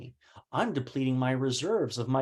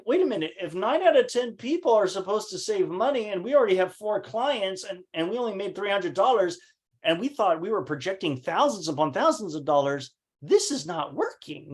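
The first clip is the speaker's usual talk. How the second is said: raised, frustrated protest; 6 semitones higher than usual. Retold or imitated. Confronting partner over missing money.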